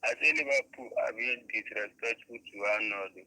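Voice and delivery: slow, careful words on a bad line; to someone hard of hearing. Real, not acted. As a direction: spell it out slowly so they catch it. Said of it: "We cannot really hear you".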